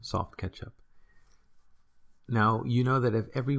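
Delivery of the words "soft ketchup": slow model of the memory phrase; slow mnemonic. Shown as a demonstration. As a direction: spell out the mnemonic slowly. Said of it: "use the phrase or two words".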